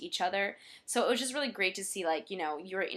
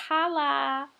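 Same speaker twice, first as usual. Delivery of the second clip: excited; 7 semitones higher, 6 dB louder than usual. Real, not acted. Celebrating federal recognition.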